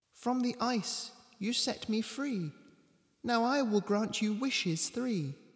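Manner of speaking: put-on very soft, high, hushed, small childlike voice. Narrator reading the words of a wishing cat freed from the ice, high-pitched childlike voice. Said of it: "in a high-pitched voice, much like a child's".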